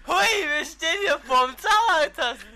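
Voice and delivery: excited. Acted. Host intro again.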